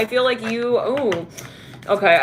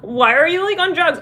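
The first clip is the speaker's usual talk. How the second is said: lightly mocked critic, pitched up; mock accusing commenter; 8 semitones higher, 3 dB louder than usual. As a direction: imitate a nosy commenter, rising in pitch.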